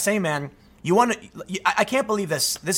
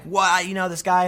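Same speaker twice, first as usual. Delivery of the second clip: raised-pitch mock indignation; mock angry outburst; 4 semitones higher than usual. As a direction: replay a brief flare of anger. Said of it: "I can get angry".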